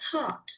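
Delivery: PART said without its R, "paht"; non-rhotic "paht" for PART; dropped R. Shown as a demonstration. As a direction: open long "ah" before the T in PART. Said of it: "or before a consonant".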